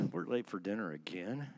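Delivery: "We're late for dinner again?" with a pointed, accusing rise on "late"; sarcastic tone. Shown as a demonstration. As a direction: let the irritation show on "late". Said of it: "the way he said it was".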